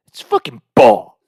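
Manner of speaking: lightly voiced nerdy buddy, drawn out; a hint of Napoleon Dynamite; Sean. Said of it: "Sean's Napoleon Dynamite with brown hair".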